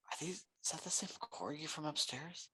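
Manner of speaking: hushed stage whisper to a friend. Acted. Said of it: "I, like, whisper quietly over to Doug".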